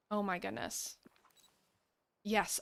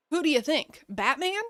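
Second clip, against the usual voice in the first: Mushu; 4 semitones higher, 3 dB louder than usual. Retold or imitated. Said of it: "he talks in his normal voice".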